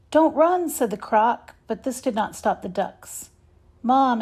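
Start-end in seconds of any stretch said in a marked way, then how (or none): 0.1-0.7 higher, louder plea to stop; calling out. A narrator's reading. Croc calls after fleeing ducks. 3.8-4.2 higher, louder call for his mother; duckling calling to mom. A narrator's reading. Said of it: "Ace called".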